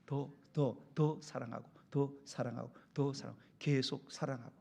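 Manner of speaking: low, measured repeated plea; gentle urging. Acted.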